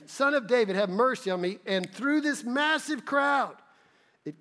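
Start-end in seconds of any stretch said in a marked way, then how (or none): 0.1-1.6 a touch of the loud high plea; calling out. Retold or imitated. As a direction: call through the crowd. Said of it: "he calls out to him".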